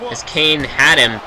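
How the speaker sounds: wrestling commentator calling the match; steady ringside play-by-play; play-by-play commentary. Acted. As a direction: call the action like a TV announcer.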